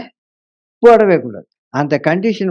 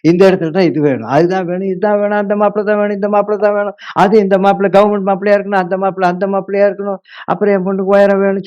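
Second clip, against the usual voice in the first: rattled off fast and higher, one demand after another; hammed-up greedy mother reeling off wants quickly; mock demanding list; 3 semitones higher, faster than usual. Preacher mimics a mother listing demands to God, rapid higher voice.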